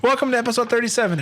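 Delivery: high, fast, through laughter; laughing. Real, not acted. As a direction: get the words out while cracking up. Restarts intro while laughing.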